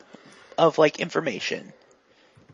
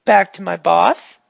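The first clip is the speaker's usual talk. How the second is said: lightly voiced eager goon; a hint of a guileless, upbeat helper; chatty, friendly character; 4 semitones higher, 4 dB louder than usual. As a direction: chat naively in a slightly raised voice.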